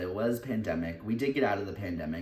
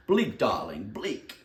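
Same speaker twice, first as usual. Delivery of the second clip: impression of a famous singer; 3 dB louder, much slower than usual. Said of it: "That was my impression of a famous singer".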